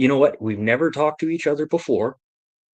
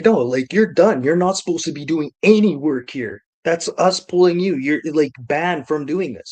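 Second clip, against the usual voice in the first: raised, emphatic imitation of an official; mock reprimand; 4 semitones higher, 5 dB louder than usual. Inspector banning him from the job, emphatic mock reprimand. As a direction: lay down the law, higher and louder.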